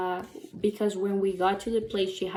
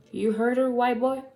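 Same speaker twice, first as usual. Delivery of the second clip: mildly raised, higher accusing question; confrontational challenge; 5 semitones higher, 4 dB louder than usual. Retold or imitated. Big guy accusing the driver of hurting her, mildly confrontational.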